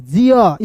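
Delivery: "जियर" ending in an open ah, no r; silent final r. Shown as a demonstration. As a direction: let "जियर" glide from ee into ah. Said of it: "इस तरीके से".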